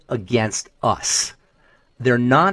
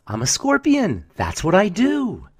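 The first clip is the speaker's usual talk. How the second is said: scorpion; 7 semitones higher, slower than usual. Retold or imitated. Scorpion answers in fable.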